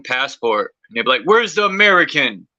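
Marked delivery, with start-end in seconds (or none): 1.2-2.5 higher-pitched imitation of someone hunting a fugitive; put-on questioning call, pitched up; mock searcher. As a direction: play the demanding search party. Voices searchers hunting for him.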